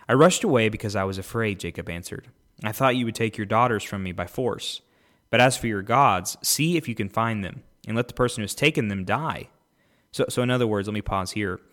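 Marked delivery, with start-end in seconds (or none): 0.1-9.5 measured, lifted Bible reading; podcast host reading Genesis aloud, clear scripture reading. Acted. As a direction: read the passage out to the listeners.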